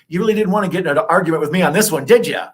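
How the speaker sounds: teasing challenge. Acted. Teasing the co-host.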